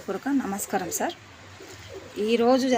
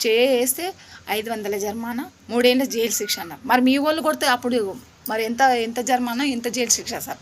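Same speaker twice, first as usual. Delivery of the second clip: louder, pointed questions at the officials; indignant demand; 3 dB louder than usual. Real, not acted. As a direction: press them for an answer, voice raised. (అధికారులను నిలదీస్తూ ఆవేశంగా గట్టిగా)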